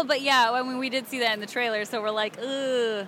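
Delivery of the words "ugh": short retold "ugh"; groan of dismay. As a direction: give a small mock groan. Retold reaction to the trailer.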